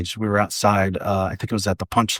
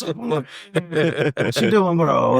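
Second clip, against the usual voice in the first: put-on high, drawn-out Latino comic accent; slow, hammed-up Latino accent; 7 semitones higher, much slower than usual. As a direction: stretch it out in a mock Latino stage accent. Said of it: "Like, I had the accent".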